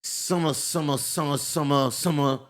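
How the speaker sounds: mock the new kid's speech, slurred; mocking mumble. Classmate taunting new kid from the back: mocking mumble. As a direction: kid mimicking a drawl as mumbled noise. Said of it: "he would be in the back of the class and go".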